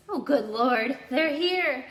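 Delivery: flustered aunt as the guests arrive; frantic. A narrator's reading. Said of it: "said Aunt Petunia frantically".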